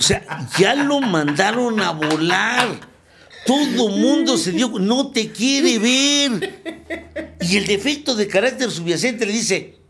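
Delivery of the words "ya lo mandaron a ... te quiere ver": laughing mockery. Real, not acted. Telling the group he got dumped, laughing hard. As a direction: tease him while cracking up. Mocking the rejected man, laughing.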